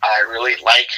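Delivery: pointed fun fact, mostly plain; deadpan hint. Retold or imitated. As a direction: say it like a veiled warning. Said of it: "his way of saying".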